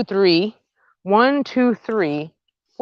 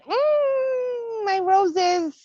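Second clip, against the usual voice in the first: much higher, adoring hum; delighted swoon; much slower than usual. Real, not acted. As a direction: coo over the roses. Admiring her roses.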